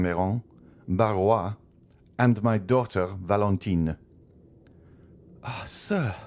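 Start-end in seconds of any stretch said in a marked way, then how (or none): 5.4-6.1 startled exclamation. A narrator's reading. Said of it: "exclaimed Madame de Villefort".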